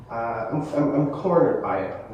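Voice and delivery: nervous stammer on repeated words; stuttering. Real, not acted. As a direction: trip over the first words. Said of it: "I'm already stuttering".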